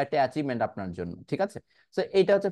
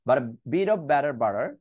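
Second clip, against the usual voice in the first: slow practice reading; much slower than usual. Shown as a demonstration. Teacher demonstrating the tongue twister for students, slow practice reading. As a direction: slowly model each phrase of the twister. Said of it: "আমি slowly আগে পড়ছি".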